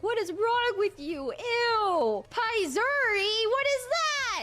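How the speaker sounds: high, loud disgusted mom; mock disgusted mom. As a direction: shriek it like a grossed-out mother. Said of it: "she'd be like".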